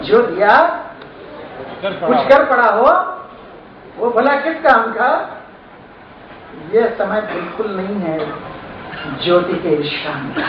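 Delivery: measured verse, phrase by phrase with long pauses; poem recitation. Acted. Poet rallies listeners against resting, measured recitation. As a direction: deliver each phrase separately to the audience.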